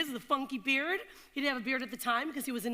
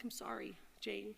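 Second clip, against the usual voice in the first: timid apology; 10 dB quieter than usual. Retold or imitated. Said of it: "Her lip was trembling".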